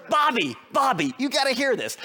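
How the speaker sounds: high, loud excited summons; excited call. Retold or imitated. Principal calling a fellow teacher over, high and excited. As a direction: call a colleague over in delight.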